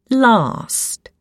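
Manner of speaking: "Last" with a long "ah" vowel. Shown as a demonstration. Reader teaching the Queen's English, "Last" with long A. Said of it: "make the A sound longer".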